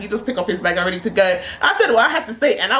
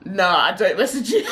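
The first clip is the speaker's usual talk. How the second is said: imitated laughing denial; retold denial bursting into laughter; laughing at her. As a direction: deny it while cracking up. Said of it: "The way he laughed at me".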